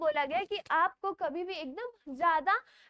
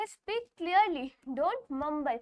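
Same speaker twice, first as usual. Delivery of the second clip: reads the rule slowly, word by word; slow reading aloud; slow textbook reading; 2 semitones lower, much slower than usual. Shown as a demonstration. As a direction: dictate it slowly for students. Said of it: "यहाँ पर बोला गया".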